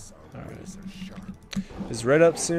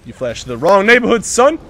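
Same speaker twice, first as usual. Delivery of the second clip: trash-talk taunt; 4 semitones higher, 5 dB louder than usual. Real, not acted. Taunting enemy in game.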